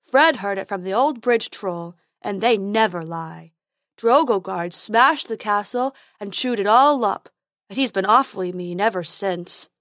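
dopey unicorn gossip voice; silly unicorn. Acted. Unicorn insists the troll never lies, silly character voice.

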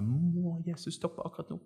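high, strained inner plea; mock telepathic thinking. Preacher mimics blind man wishing silently, mock telepathic. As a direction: think it hard at someone, without projecting. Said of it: "tenker han veldig telepatisk".

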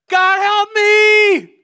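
desperate full-force scream, high and drawn out; screamed prayer. Acted. Preacher acting Jonah inside the fish, screaming in desperation. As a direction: scream for help with all your might. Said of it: "He shouted out his prayer".

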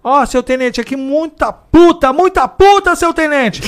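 high, loud, gleeful radio report; excited old cop. Retold or imitated. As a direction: blurt it out with glee. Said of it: "o antigão fala assim".

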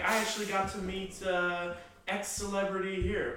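high, bright-eyed brag; excited bragging. Retold or imitated. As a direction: gush about meeting a star. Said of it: "It's like".

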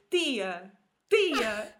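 imitated toddler saying "Tia" with a Portuguese accent, loud; toddler's Portuguese accent. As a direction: punch out "Tia" like a little Portuguese child. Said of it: "ele é português mesmo".

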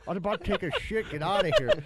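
high, annoyed get out of here; exasperated roommate. Retold or imitated. Roommate who needs the toilet, high and exasperated. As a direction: shoo him out, fed up.

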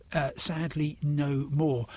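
ordinary delivery

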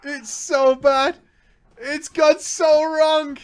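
ordinary talk

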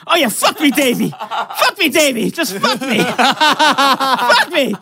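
high, loud fake cries of ecstasy; hammed-up mock moaning. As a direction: parody a lover in wild pleasure, full volume. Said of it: "moaning a little bit, and I'm just like".

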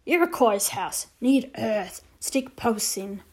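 terse and grave; Little Bear voice. Acted. Little Bear to the boy, slow and terse.

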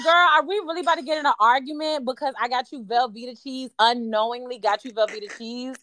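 incredulous comeback, retold; exasperated retort. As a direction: play up the disbelief in a retold argument. Acted quarrel with her friend.

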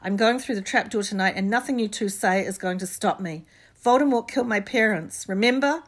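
loud, passionate outburst; shouting. A narrator's reading. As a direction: shout them down in fury. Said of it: "Harry shouted".

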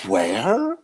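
"Where" said as "hwhere", loud and drawn; breathy WH. Shown as a demonstration. Trading WH words with a friend, "Where" with a puffed hw. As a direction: lean on an airy h before "Where". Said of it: "People who actually say W H's correctly".

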